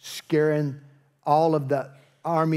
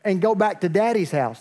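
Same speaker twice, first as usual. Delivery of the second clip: higher, louder big-brother put-down; mock angry; 5 semitones higher, 5 dB louder than usual. David's brothers sending him home, mock angry. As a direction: send him off in mock anger. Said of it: "his brothers get mad at that".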